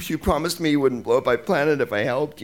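a hint of Princess Leia pleading; Princess Leia line. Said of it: "Carrie Fisher, says".

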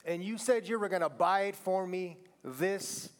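lightly voiced whiny child; a hint of a pleading kid. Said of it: "I should do a kid voice".

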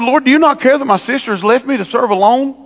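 hammed-up whine of an overworked sister; ticked-off Martha. Martha complains to Jesus about her sister, in hammed-up exasperation. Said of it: "She said".

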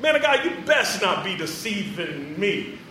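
slow, laughing wary warning to the prophet. Retold or imitated. Woman warning the man of God, slow and laughing. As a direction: warn him, half joking. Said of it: "she's like".

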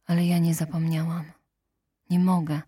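ordinary delivery

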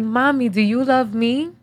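a hint of a little girl asking mommy; little daughter's voice. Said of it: "in her little raspy ass voice".

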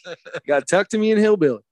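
quick, a touch of grandpa's bluntness; imitating grandpa. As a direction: tell the smart guy off, fast. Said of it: "He used to tell 'em".

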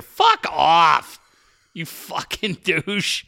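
sudden mock shouted insult; swearing tirade. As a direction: snap back with a fake outburst. Mock reply to flower fields post.

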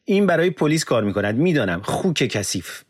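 high, loud accusing shout, slowing on the insult. Acted. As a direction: scream at the translator, then spit out the insult. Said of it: "فریاد کشید".

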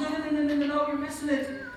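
high, soft, reassuring tone; lightly acted patient correction; gentle correction. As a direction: softly wave away the misunderstanding. Acts out Jesus gently correcting people.

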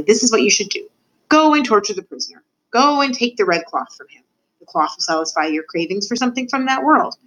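a hint of ominous teacher; commanding rat mentor. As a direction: lay down orders, then warn firmly. Mentor orders and warns pupil.

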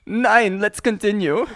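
mock-German host moving on; German accent. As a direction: carry on in a put-on German accent. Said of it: "You still gotta do the German".

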